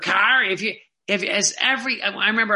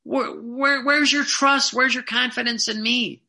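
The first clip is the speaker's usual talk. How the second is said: upset Jesus; 5 semitones higher than usual. Acted. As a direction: press him again and again. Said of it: "He was upset".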